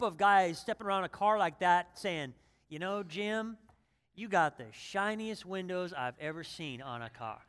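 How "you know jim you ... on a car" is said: a hint of a Southern car buff at a show; mild Southern accent, quietly impressed; Southern drawl. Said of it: "why they talk so Southern".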